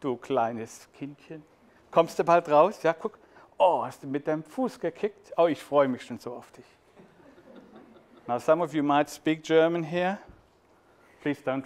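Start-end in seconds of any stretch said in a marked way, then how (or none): 0.0-6.7 put-on excited, loving talk to a baby in the womb; father to unborn child. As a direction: coo to your unborn child, delighted. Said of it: "a father talking to the unborn child".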